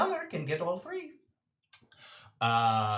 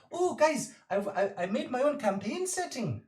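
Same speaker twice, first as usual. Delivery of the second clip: put-on high, bubbly kid pitching her idea; higher excited player voice; eager Birdie; 5 semitones higher than usual. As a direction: sell your homemade setting with wide-eyed excitement.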